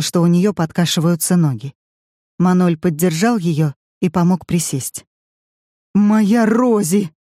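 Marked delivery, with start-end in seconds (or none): 5.9-7.1 exploding at him. A narrator's reading. Henri explodes at Paul over his fainting wife. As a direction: burst out, rushing to your wife. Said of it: "взорвался Анри".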